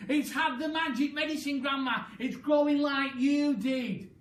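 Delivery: high, loud thrilled cry; excited shout. Acted. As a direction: hop about shouting with joy. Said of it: "pointing at the enormous hen and shouting".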